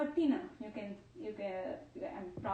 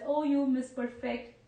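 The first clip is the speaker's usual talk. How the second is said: mock formal; 5 dB louder than usual. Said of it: "refers to you as".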